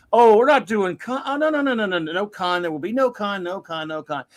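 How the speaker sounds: mock insistent denial, loud then fading; imitating Abrams denying. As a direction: deny it over and over, half-mocking. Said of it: "Abrams kept saying stuff like".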